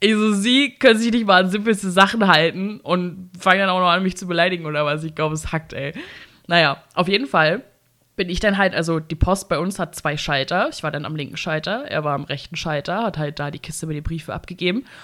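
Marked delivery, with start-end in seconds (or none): none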